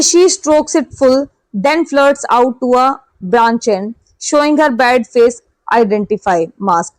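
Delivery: slow poem reading. Shown as a demonstration. Teacher reciting the poem extract for students, slow and measured. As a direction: draw the lines out slowly, almost recited. Reads the poem lines as a question.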